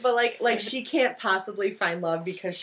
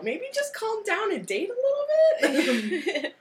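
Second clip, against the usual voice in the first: laughing; 12 semitones higher, slower than usual. Real, not acted. Mocking advice to couple.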